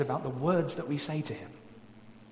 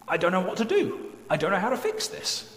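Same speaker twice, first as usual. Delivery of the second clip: pleading cry; 6 semitones higher, 4 dB louder than usual. Acted. Desperate prayer about marriage.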